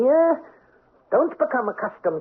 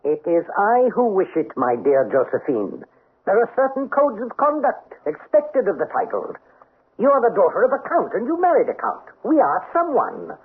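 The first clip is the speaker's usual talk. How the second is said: stern aristocrat; 3 semitones higher than usual. Acted. Count's cold stern lecture.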